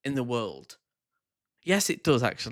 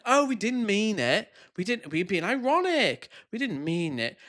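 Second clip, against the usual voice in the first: mock excuse; 6 semitones higher than usual. Mocking right-wingers.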